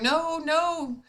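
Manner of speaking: high-pitched flustered objection; retold worked-up protest. Elderly shopper stopping a stranger paying, imitated worked-up. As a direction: imitate someone alarmed and protesting. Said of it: "she's getting all, you know, worked up".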